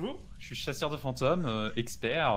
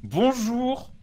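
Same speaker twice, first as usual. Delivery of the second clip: ghost-calling voice; 6 semitones higher, 6 dB louder, slower than usual. Retold or imitated.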